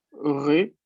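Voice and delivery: Répète with a closed first E "re". Shown as a demonstration. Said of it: "escuchen bien cuando yo pronuncio el primero". (Répète con la primera E cerrada)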